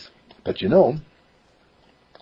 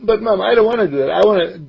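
put-on higher boy's voice, eager; young boy voice; 11 semitones higher, faster than usual. Boy explains he only got in dad's way, higher boyish voice. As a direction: voice a ten-year-old who wants to help. Mark protests.

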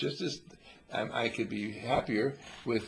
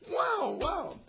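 excited shout; 3 dB louder than usual. Pretend. Imagined Cadillac win joy.

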